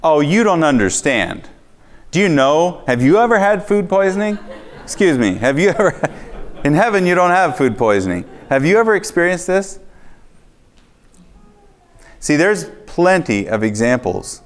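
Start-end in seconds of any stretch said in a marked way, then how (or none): 0.0-9.8 incredulous protest rising higher with a laugh; hammed-up indignant back-talk to God; mock argument. Preacher mocking his own arguing with God, indignant. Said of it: "I could have argued".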